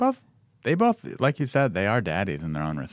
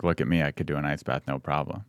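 alpha daddy boast. Retold or imitated. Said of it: "Is just be the, like".

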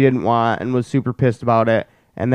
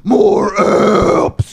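whispered craving; 8 semitones higher than usual. Retold or imitated. S0 mimics kid, unvoiced.

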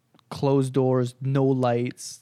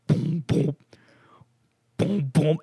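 booming thud of a pulse; imitated heartbeat; 2 semitones higher, slower than usual. Imitating the heart heard underwater, bassy heartbeat thuds. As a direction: thump it out like a heartbeat. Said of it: "but with bass on".

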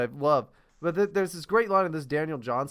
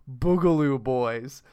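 put-on slow, dead-serious "Boogaloo Boys", each word drawn out; mock earnest; 7 semitones lower, slower than usual. Mocking earnest TV reporters, slow and solemn. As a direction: say "Boogaloo Boys" with a straight-faced solemn newsreader gravity. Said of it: "people in earnest say".

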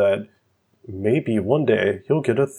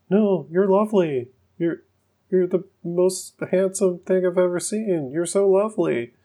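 put-on high, gushing boy voice; hammed-up high Mark; mock Mark; 8 semitones higher than usual. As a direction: gush compliments in a high kid's voice. Mark's voice in retelling.

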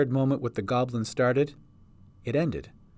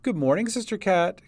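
higher-pitched friendly call; called greeting; 7 semitones higher than usual. A narrator's reading. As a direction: call hello to a passer-by. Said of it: "called a farmhand".

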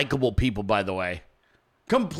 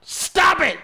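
mock alarm; 8 semitones higher, 4 dB louder, slower than usual. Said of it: "you're like".

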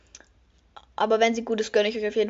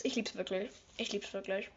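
much softer; 2 semitones lower, 15 dB quieter than usual. Real, not acted. Sincere after squealing.

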